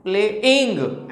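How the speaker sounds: प्लेइंग with इंग stressed, the wrong way; wrong stress on ING. Shown as a demonstration. Teacher repeating the wrong version for students, इंग stressed. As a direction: push इंग in प्लेइंग as a mistake. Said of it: "ऐसा नहीं बोलते हैं".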